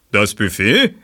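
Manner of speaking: überrascht. Acted. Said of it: "sah uns überrascht an".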